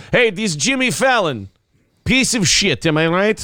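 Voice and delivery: mock Russian griping; Russian accent. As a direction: put on a comic Russian accent. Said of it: "you can do a Russian accent".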